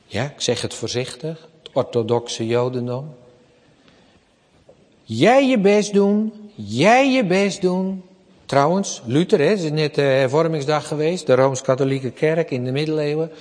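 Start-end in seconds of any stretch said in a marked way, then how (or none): 5.1-8.0 slow, higher mock insistence; mimicking the rule: do your best; mock demand. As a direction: imitate a demanding god, drawn out. Mocking works-religion demand.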